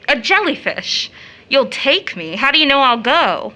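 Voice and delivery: sharp, offended challenge; indignant retort. Acted. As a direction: throw his presumption back at him. Rachel bristles at John's presumption.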